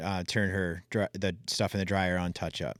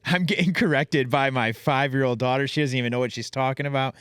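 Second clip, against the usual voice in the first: higher and louder, laughing through the words; laughing disbelief; 5 semitones higher, 3 dB louder than usual. Real, not acted. Father amused at his five-year-old correcting him, laughing.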